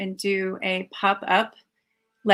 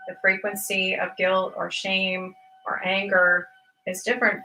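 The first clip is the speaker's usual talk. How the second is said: measured, unhurried meditation teacher delivery; guided meditation talk with spaced-out phrases. Real, not acted. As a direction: lead listeners through it with long pauses between phrases.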